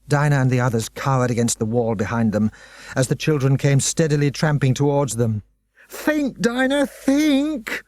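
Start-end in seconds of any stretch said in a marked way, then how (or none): 5.9-7.8 high, pressing cry; urgent yell. Acted. Lloyd yelling at Dinah to think, high and urgent. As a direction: drag the words out, urging her on. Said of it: "yelled Lloyd".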